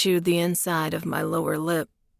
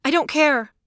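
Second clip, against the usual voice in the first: higher female voice, defiant; Claire's voice, defiant; 9 semitones higher than usual. A narrator's reading. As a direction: brush it off, stubborn.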